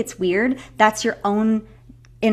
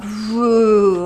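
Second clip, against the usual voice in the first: exhale woo; 6 dB louder than usual. Shown as a demonstration. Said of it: "Go all the way out".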